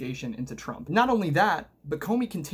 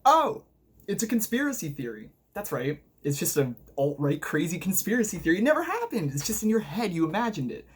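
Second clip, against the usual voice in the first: sarcastic mock denial; 3 semitones higher than usual. Vlogger mocks people who call Spygate a conspiracy theory, sneering.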